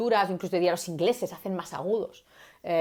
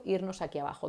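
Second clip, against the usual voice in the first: drop to low voice; 7 dB quieter than usual. Shown as a demonstration. Teacher showing how serious things sound, dropped low and soft. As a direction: sink the voice down and much softer. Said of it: "cuando queremos decir algo más serio".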